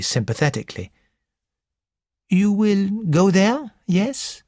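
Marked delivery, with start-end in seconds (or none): 2.3-4.4 put-on high, lilting French-accented gentleman; a fussy Belgian detective, high and precise; French accented little detective. Porrett speaks.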